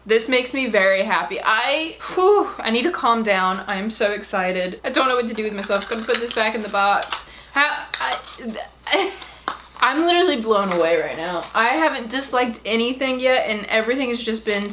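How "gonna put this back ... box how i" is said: stunned whispered words; whisper, overwhelmed; breathless whisper. Real, not acted. Whispering to viewers, too excited for words.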